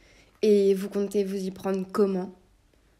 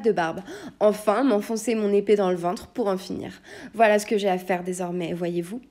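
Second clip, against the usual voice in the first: louder, seething list of grievances; restrained rage; 4 dB louder than usual. Acted. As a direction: grind through it trembling with rage. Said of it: "tremblante de rage".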